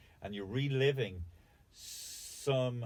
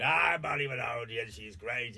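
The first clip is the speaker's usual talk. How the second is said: mock admirer; 5 dB louder than usual. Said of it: "And then when she's dead".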